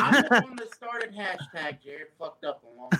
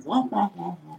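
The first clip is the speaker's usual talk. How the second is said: Peanuts adult wah wah. Retold or imitated. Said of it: "Peanuts adult right now".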